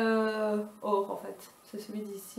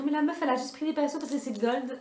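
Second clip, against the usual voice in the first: mock viewer; 4 semitones higher, faster than usual. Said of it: "Vous allez, vous allez me dire".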